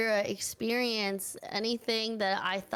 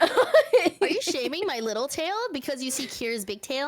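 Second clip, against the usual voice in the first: laughing through the question; giggling, playfully offended; 4 semitones higher, 4 dB louder than usual. Real, not acted. Teasing banter about tails.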